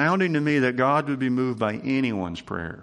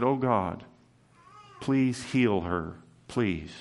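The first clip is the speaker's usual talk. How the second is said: soft, slow plea fading to a hush; pleading cry; 3 semitones lower, 3 dB quieter, slower than usual. Retold or imitated. Moses pleading for Miriam, a soft mild cry. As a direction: beg God gently, trailing off on the last please. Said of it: "Moses cried and said".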